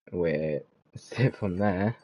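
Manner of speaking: slow, laughing through it. Real, not acted. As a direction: chuckle at the bad result.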